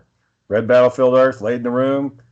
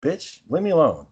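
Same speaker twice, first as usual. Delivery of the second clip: exasperated retort; 5 semitones higher than usual. Retold or imitated. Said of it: "And I'm like".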